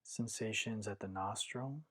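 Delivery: calm, measured meditation guidance with long pauses; guided meditation. Acted. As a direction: guide listeners inward, one unhurried phrase at a time.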